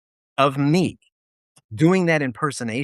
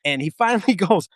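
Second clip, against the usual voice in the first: ordinary talk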